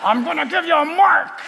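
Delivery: a hint of a cartoon deceiver; mock villain. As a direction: play a too-obvious bad guy. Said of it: "the master of deception is not gonna come and say".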